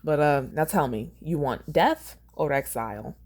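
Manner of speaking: Southern judge asks the verdict; Southern accent. Acted. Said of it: "he sounds like a southern man".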